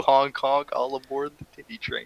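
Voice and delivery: goofy train conductor clown; whooping, honking silly voice. Acted.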